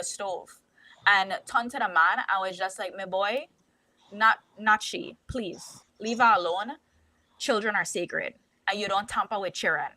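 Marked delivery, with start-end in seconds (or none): 3.0-9.9 imitating a Jamaican man's reproach; lightly voiced Jamaican accent, firm warning. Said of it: "in his Jamaican accent".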